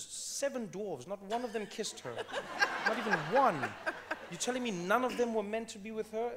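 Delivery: loud, laughing disbelief at the dwarves; laughing rant. Real, not acted. Mocking fairy tales, laughing loudly.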